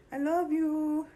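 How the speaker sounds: high gushing I love you. Real, not acted. Owner gushing high-pitched at her cat.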